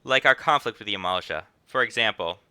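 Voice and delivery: hint of rich New York accent; slight New York accent. Innkeeper explains the conflict, slight New York accent. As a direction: lightly read it as a rich New Yorker. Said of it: "Slightly rich New York accent vibes".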